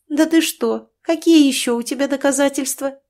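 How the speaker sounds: mock him with exaggerated surprise. A narrator's reading. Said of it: "издевалась Катя".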